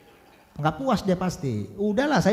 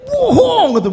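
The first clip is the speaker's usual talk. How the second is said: high, loud furious snap; angry retort; 9 dB louder, slower than usual. Retold or imitated. Wife snapping at her husband, loud angry retort. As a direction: fling it back at him in anger. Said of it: "makanya dia marah".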